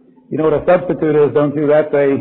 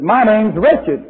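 slow, higher Southern drawl on "Wretched"; mock Southern introduction, slowed; Southern accent; 7 semitones higher, much slower than usual. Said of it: "These are all things that happened".

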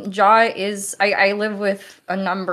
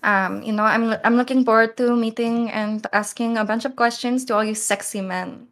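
light put-on Filipino accent. Shown as a demonstration. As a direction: playfully introduce yourself in Filipino-accented English. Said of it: "This is an accent from Philippines".

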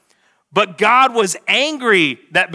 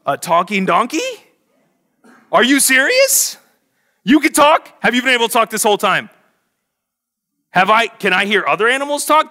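rising, louder, astonished questions; amazed disbelief; 5 semitones higher, 3 dB louder than usual. Retold or imitated. Balaam, stunned, questioning his talking donkey. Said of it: "Balaam doesn't go".

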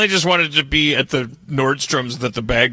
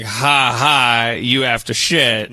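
mocking older brother; 5 semitones lower, much slower than usual. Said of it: "older brother earlier who's like".

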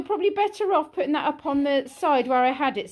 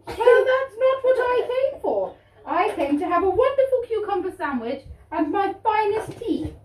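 posh queen voice; 4 semitones higher than usual. Pretend. Queen indignant at silly restaurant.

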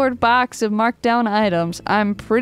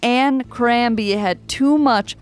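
formal speech. Acted. Mock formal commemoration speech.

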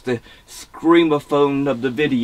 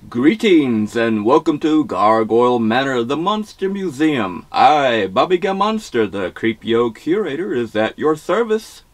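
spooky voice. Acted. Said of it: "Get my spooky".

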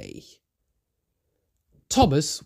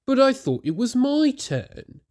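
Toby voice; 11 semitones higher than usual. A narrator's reading. Toby explaining.

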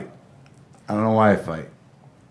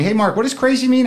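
curious asker voice; 10 semitones higher, 3 dB louder than usual. Retold or imitated. Imitated questioner.

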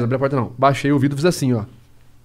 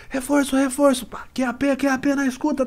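high, urgent mock radio call; radio call for backup; 11 semitones higher, 3 dB quieter than usual. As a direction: yell for backup into a walkie-talkie. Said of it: "começou a gritar". (pedindo reforço no rádio, agudo e urgente)

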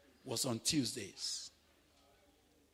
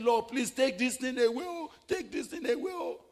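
retold pleading prayer; 10 semitones higher, 5 dB louder than usual. Retold desperate prayer to God.

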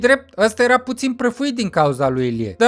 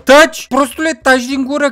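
shouted order; 2 semitones higher than usual. Acted. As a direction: cut him off with a shout. Boss silences an arguing friend. (strigă scurt "Taci!")

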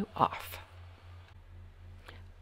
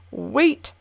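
high, loud commanding cry; shout; 7 semitones higher, 8 dB louder than usual. A narrator's reading. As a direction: stop him with one sharp shout. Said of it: "shouted the king".

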